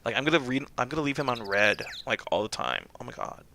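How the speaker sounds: lightly put-on Valley Girl gossip; a hint of scandalized Valley Girl; American Valley Girl. Shown as a demonstration. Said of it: "American Valley Girl".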